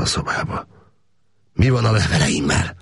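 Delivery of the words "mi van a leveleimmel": a touch higher, pressing; insistent question. A narrator's reading. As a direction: repeat the demand with less force. Repeats his demand more calmly.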